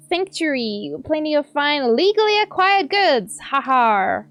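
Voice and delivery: lightly voiced sly pirate trader; a hint of a pirate hawking loot; shady pirate merchant. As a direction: pitch the wares like a smug smuggler. Reads merchant NPC lines.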